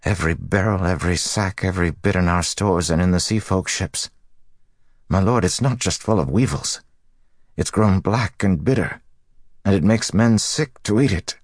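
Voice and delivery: high-pitched, anxious report; taut, worried dockmaster. A narrator's reading. Dockmaster reporting spoiled stores to his lord, high and taut. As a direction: plead the bad news upward to a lord.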